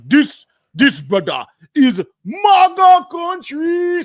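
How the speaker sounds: slow, loud, high mock Nigerian accent shout; hammed-up Nigerian accent, stretched and bellowed. Mocking the Nigerian brothers in a shouted Nigerian accent. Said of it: "the Nigerian accent was like".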